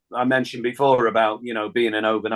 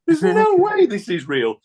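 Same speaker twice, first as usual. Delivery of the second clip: much higher and louder through a laugh; laughing disbelief; 5 dB louder than usual. Retold or imitated. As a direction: laugh it off as a wind-up. Disbelieving a surprise phone call.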